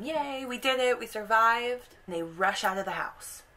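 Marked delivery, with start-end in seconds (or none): 0.0-1.9 higher, happy little cheer; mild celebrating kids; joyful cheer. Retold or imitated. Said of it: "dancing and going".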